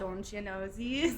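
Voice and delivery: slow Minnesota accent with long o's. Shown as a demonstration. Showing how drinking brings out the Minnesota accent. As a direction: stretch the Minnesota "oh" sounds. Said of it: "the oohs come out a little more".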